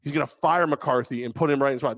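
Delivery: ordinary talk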